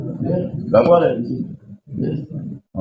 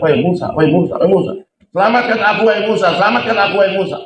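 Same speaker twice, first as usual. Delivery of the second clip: much higher, begging for rescue; desperate plea; 8 semitones higher, faster than usual. Acted. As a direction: beg for your life as you sink. Korun sinking, crying for help. (memohon putus asa minta tolong)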